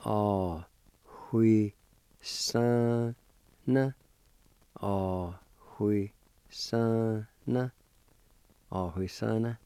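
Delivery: Ah, hui, san, na said syllable by syllable, then run together; Cherokee word. Shown as a demonstration. Teacher modeling the word for garden, syllable by syllable. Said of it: "it's pronounced like this".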